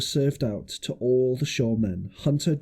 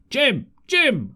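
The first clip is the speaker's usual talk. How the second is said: high calling shout, much higher; 11 semitones higher, 4 dB louder than usual. A narrator's reading. Silver shouting after Jim from the boat, high call. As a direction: call the name out across the beach. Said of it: "I heard him shouting".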